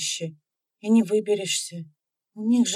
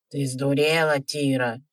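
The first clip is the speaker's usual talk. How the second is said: put-on much lower old man, outraged; indignant old man; 7 semitones lower than usual. Old villager objects to Тира, indignant and low. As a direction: scold her as a cranky old man. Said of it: "возмутился какой-то старик".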